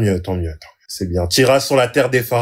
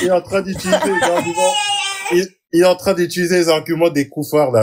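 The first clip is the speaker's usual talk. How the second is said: laughing; 3 semitones higher, faster than usual. Real, not acted. Cracking up at the argument.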